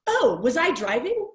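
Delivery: the old driver learns she was at the wheel, mock aghast. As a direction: gasp it out, lightly hammed-up. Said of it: "looks over at her aghast".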